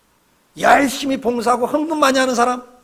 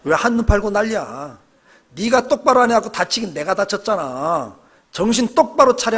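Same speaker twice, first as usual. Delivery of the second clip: scolding hand. Pretend. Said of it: "손이 하는 말이".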